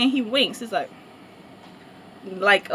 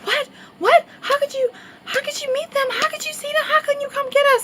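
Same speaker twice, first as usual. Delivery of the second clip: much higher, piling-up shocked questions; shocked friend. Retold or imitated. Friend asking why nobody came to get them, shocked. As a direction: fire questions in high disbelief. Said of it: "she was like".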